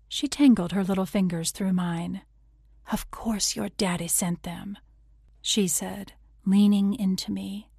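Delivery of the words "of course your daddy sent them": soft and soothing, softer by far; lullaby sweet. Acted. Etta May soothing her friend about Daddy's flowers, soft and sweet. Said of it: "her voice lullaby sweet".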